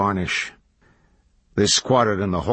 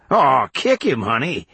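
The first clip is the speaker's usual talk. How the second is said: high, louder, cajoling call; raised voice, goading; 5 semitones higher, 4 dB louder than usual. A narrator's reading. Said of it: "he called".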